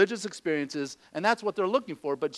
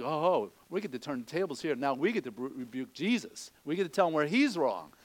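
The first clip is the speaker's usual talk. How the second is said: smug disciples; 3 semitones lower, 3 dB quieter than usual. Retold or imitated. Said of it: "They're like".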